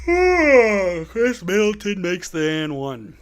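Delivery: slow, drawn-out announcer voice; slow deliberate sportscaster call; play-by-play call. Acted. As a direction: stretch the call out.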